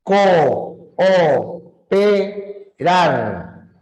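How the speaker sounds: co, o, pe, rar split syllable by syllable. Shown as a demonstration. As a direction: spell out co - o - pe - rar in beats. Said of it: "sílabas distintas". (separa co, o, pe, rar por sílabas)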